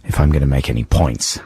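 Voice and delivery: croaky voice from a cold; hoarse voice. Real, not acted. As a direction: speak with a hoarse, sore throat. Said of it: "it's gone to my cords".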